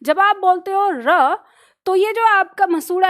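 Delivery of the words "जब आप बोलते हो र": slow, with र rolled off the gum ridge; slow r demonstration. Shown as a demonstration. Teacher slowly modelling र for the class. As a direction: draw it out so students hear र. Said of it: "इसका सही उच्चारण कैसे होता है?".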